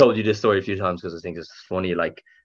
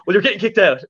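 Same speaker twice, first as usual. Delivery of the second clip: higher, smug verdict; smug bouncer; 12 semitones higher, 3 dB louder than usual. Retold or imitated. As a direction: deliver the kick-out like a gotcha. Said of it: "And he goes".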